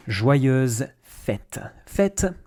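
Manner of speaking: fête stressed high, short open e; model pronunciation. Shown as a demonstration. Teacher points out the accent on fête, clear model. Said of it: "little accent on top of the E".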